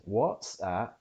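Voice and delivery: "what's" held on the stop, then released into S; pressure sound. Shown as a demonstration. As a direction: build pressure before the S in "what's". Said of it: "it's a pressure sound".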